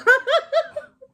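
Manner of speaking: high laugh breaking out through tears; tearful laugh. Real, not acted. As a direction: laugh off the crying. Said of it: "I have to lighten up the mood".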